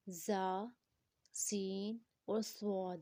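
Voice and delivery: زا, سین, سواد each with a whistling consonant; whistle sounds. Shown as a demonstration. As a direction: separate زا, سین, سواد and let each hiss. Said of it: "یہ تینوں وسل sound کے ہیں".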